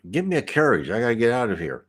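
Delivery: barked orders. Retold or imitated. Sailor on the beach demanding a carriage, mild mock bark. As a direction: retell a gruff order without a full act. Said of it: "just kinda barked orders".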